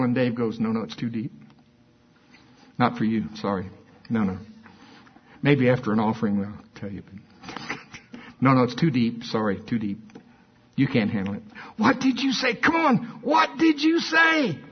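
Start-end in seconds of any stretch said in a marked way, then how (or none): 0.6-11.4 low, offhand brush-off; lightly imitated teasing refusal; mock dismissive. Pastor refusing to share his secret, mock dismissive. 11.8-14.6 very high, drawn-out mock begging; insistent pleading. Crowd begging the pastor to tell, insistent mock pleading.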